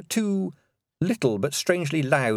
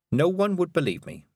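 put-on young man voice; 8 semitones higher than usual. The speaker's voice.

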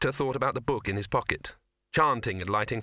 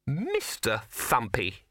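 Mister Thumpy drawn out slow and scornful; withering; 2 semitones higher, much slower than usual. Acted. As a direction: wither him with the name, slowly. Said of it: "it said in withering tones".

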